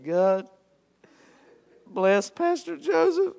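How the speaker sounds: high-pitched, choked-up mock sobbing; mock tearful prayer. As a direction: squeak out a prayer as if too overcome to speak. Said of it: "I just started boo-hooing".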